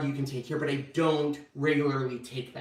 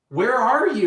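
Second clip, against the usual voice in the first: surprised; 7 semitones higher, 7 dB louder, slower than usual. Retold or imitated. Husband alarmed by his confusion.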